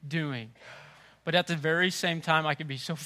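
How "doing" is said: disbelieving parent. Retold or imitated. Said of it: "eye to eye and thought".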